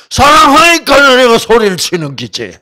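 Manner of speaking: loud, high blunt shout; gruff husband shouting. Retold or imitated. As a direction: yell it back like a blunt husband. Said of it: "왜 이렇게 소리를 자꾸 치는겨?".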